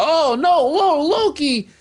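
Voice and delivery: high-pitched little villager crying out; small people's alarm. Retold or imitated. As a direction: imitate tiny folk in high-voiced alarm. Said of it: "the small people was like".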